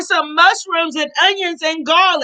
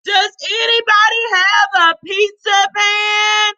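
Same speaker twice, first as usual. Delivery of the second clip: calling out; 5 semitones higher than usual. Acted. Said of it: "she called".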